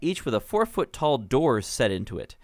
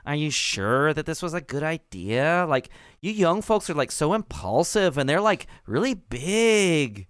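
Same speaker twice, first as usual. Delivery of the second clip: worried gnome mayor; 4 semitones higher than usual. Acted. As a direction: fret like a small-town mayor. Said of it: "And she says".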